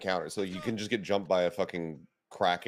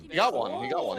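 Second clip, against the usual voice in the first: rising disbelief, much higher; surprised; 13 semitones higher than usual. Real, not acted. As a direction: gasp it out in disbelief. Reacting to a surprising kill.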